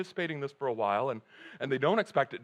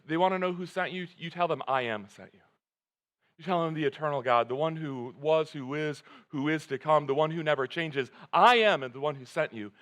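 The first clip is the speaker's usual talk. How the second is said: God's answer. Acted. Preacher voicing God declaring I am to Moses. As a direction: speak as God, firm and solemn.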